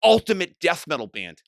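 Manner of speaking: mock the band in disbelief; incredulous retort. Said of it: "I'm like".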